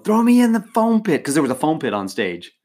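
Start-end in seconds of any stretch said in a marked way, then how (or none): 0.0-1.2 high-pitched, excited mock yell; retold yell. Winner held in Shaq's arms on stage, retold excited yell. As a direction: call it out high, as if yelling up close. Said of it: "I yell to him".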